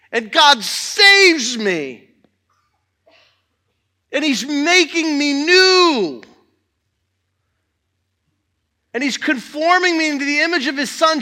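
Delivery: loud, fervent pulpit preaching, pushing the congregation; preaching at full force. Acted. Pastor rousing the church about testifying, fervent loud preaching. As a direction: drive it home to the church with rising fire.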